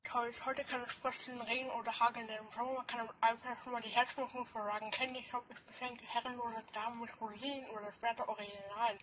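rapping with a cork in mouth; cork in teeth. Real, not acted. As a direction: rap through a cork between teeth. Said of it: "Korken zwischen die Zähne". (Rap mit Korken im Mund)

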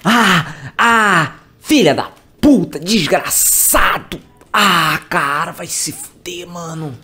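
panicked high swearing; screaming curses in fright; terrified cursing. Real, not acted. Jump scare, cursing.

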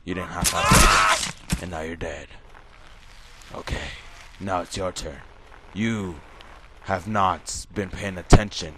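a lightly put-on menacing killer voice; a hint of a sinister game host; villain game voice. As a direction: taunt the victim like a horror villain. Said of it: "I don't know why I'm still talking like this".

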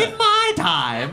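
put-on old-timer voice. Receipts as old manuscripts.

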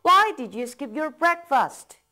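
slow, even drill pace; slow model reading. Shown as a demonstration. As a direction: say it slowly, leave room to repeat. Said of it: "따라 읽어보겠습니다".

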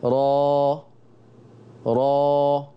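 را with the jaw wide open; را, fully open; full open ra. Shown as a demonstration. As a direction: say را with a full fatha. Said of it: "أفتحه فتحة كاملة".

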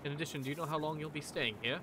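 courteous, lilting welcome; translated Duergar guard. Acted. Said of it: "Faye, as you hear this, you hear clearly".

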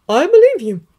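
put-on high, firm older woman; McGonagall voice. A narrator's reading.

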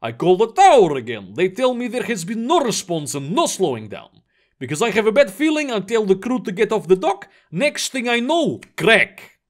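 crewman reporting trouble, lightly in character; lightly voiced Vladimir. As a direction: give the account in a slightly put-on character voice. Plays crewman reporting the collision.

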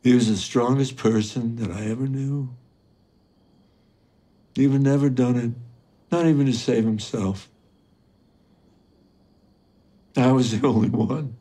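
high, loud, grief-stricken confession; anguished grief. Acted. Father recalling his murdered son, anguish rising to a cry. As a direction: build from pained recollection to a raw cry.

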